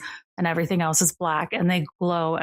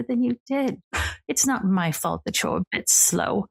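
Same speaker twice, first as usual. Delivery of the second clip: lightly voiced regal older sister, teasing; a hint of a grand lady purring at her brother; 4 semitones higher than usual. Sister greeting her brother on the porch, lightly regal and teasing.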